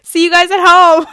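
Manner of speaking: high, hurried farewell; mock-panicked squeal; panicky goodbye. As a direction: rush out goodbyes before getting thrown out. Hasty goodbyes as bouncer approaches.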